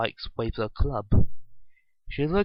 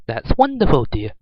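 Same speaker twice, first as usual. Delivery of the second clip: motherly voice; 10 dB louder than usual. A narrator's reading. Mother calling from inside to her daughter, motherly. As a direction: call out delighted like a mom. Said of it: "a motherly voice said".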